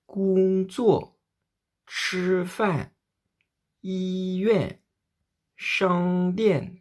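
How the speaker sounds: Gong Zuo, Chi Fan, Yi Yuan, Shang Dian : syllabe haute et plate puis chute brusque et forte; premier et quatrième ton modèle. Shown as a demonstration. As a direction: tomber d'un coup sur la seconde syllabe. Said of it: "c'est comme si vous tombiez d'un coup". (modèle premier ton puis quatrième ton qui chute d'un coup)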